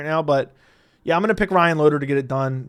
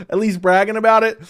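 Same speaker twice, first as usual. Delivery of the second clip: laughing; 5 semitones higher, 6 dB louder than usual. Real, not acted. Cracks up at own joke.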